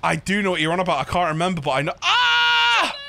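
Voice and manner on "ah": sudden high yelp; startled yelp. Real, not acted. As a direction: yelp in surprise. Sudden yelp while gaming.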